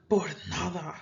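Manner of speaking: curt, dismissive por nada; rude. Shown as a demonstration. Teacher shows how a rude person says for nothing, curtly. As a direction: say it like a sneer at a poor gift. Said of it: "if someone really wants to be rude, they can say".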